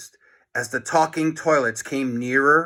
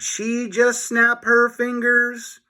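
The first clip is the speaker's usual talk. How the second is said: alarmed; 9 semitones higher, 3 dB louder, slower than usual. Acted. Boy alarmed.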